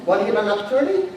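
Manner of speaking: quick, casual throwaway pitch; cavalier. Acted. Recruiter strolling around pitching people, cavalier. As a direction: toss it off like it hardly matters. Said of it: "you can approach this very cavalier".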